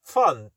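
"fun" opening on F, lips not touching; lips apart F. Shown as a demonstration. Teacher demonstrating "fun", F without closing the lips.

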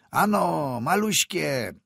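high, loud yell to urge the horses. A narrator's reading. Peasant yelling at his horses in the storm. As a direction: bellow it at the team. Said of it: "wrzasnął chłop na konie".

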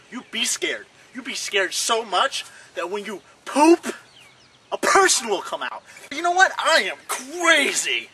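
silly skit villain taunt; hammed-up villain. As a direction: play a cartoon bad guy gloating.

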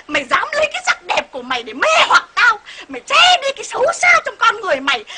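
hammed-up husband's tirade; acted angry accusation. Husband accuses wife of luring him, mock furious.

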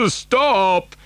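restrained shout. A narrator's reading. Grandfather stopping the lift, restrained shout. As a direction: call out without full volume. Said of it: "shouted Grandpa Joe".

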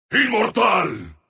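short announcer call with falling end; restrained announcer call. Acted. Announcer declaring a player immortal, restrained. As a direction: announce it with contained weight.

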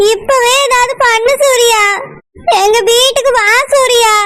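crying and begging him to come; desperate sobbing plea to her cousin; tearful pleading. Acted. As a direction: plead through tears.

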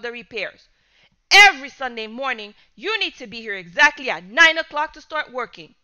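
loud, firm laying down the law; stern shouting. Acted. Father setting the boy's punishment, stern shout. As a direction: command with stern force. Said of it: "he shouted".

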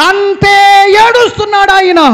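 slow, loud, high cry of grief; preacher's shout. Acted. Pastor telling listeners God weeps, slow loud cry. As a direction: cry it out, drawn out. Climax of the sermon.

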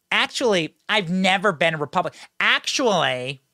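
lightly mocked Northern Michigan accent; half-hearted stab at Northern Michigan speech, drawing out the last "Actually"; attempted Northern Michigan accent. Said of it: "I can't do it".

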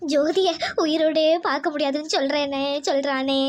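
tearful, distressed report; crying. Acted. Mother relaying the kidnapper's threat to family, crying. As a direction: report the threat through tears. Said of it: "அழாத லட்சுமி, அழாத".

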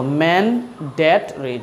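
MANDATORY broken up slowly, syllable by syllable; spelled-out mispronunciation. Shown as a demonstration. Teacher showing learners the word, slow and syllabic. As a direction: say ম্যান্ডেটরি slowly in separate chunks. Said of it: "আপনি কখনো বলবেন না যে".

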